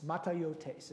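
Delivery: "Matayotes" said mah-tah-yo-tes; Greek pronunciation. Shown as a demonstration. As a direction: repeat "Matayotes" as a Greek word, falling at the end. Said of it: "the way to pronounce this word is".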